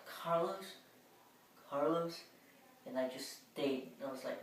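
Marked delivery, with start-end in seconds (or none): 0.1-2.2 calling out name. Retold or imitated. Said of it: "she yelled out".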